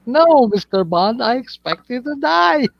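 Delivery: high, theatrical villain quote; Bond villain impression. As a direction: imitate the villain, rising on the threat. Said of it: "He's like".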